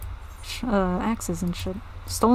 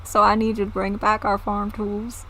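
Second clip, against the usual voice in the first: put-on southern accent. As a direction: grumble about the raiders in a southern accent. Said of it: "they have fucking southern accents now".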